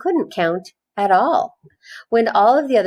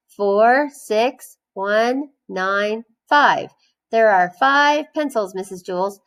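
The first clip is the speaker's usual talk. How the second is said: Joe counting wrong; 3 semitones higher, slower than usual. Acted.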